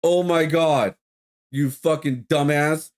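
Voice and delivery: exasperated insult. Real, not acted. Venting at rude customer.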